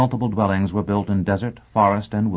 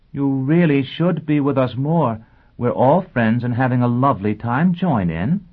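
raised, sing-out sociable coaxing; 7 semitones higher, 4 dB louder than usual. Acted. Teacher urging a loner to join in, coaxing.

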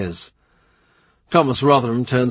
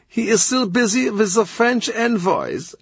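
higher voice, lightly foreign; a lightly voiced courtier; Kratzer's voice; 11 semitones higher than usual. A narrator's reading.

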